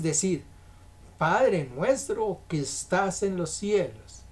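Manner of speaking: measured, emphatic Bible reading; scripture reading. Acted. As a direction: read scripture out deliberately, drawing out key phrases. Reads scripture aloud to congregation.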